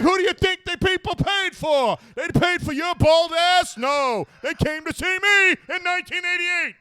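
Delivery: lightly voiced rant slipping into Dave Attell. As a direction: brag like a washed-up star. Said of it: "I'm talking like Dave Attell".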